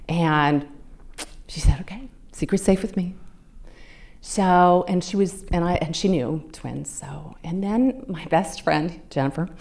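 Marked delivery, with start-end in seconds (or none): 1.8-3.1 whisper. Retold or imitated. Friend whispers back.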